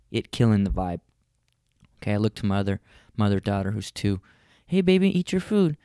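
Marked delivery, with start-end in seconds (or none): 4.7-5.8 high, sweet coaxing voice; coaxing dad. Retold or imitated. Dad coaxing two-year-old daughter to eat, sweet. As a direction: coax the toddler to eat.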